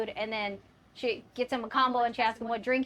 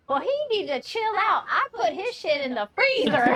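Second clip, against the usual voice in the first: mom's deadpan line; 8 semitones higher, 4 dB louder than usual. Retold or imitated. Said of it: "she says".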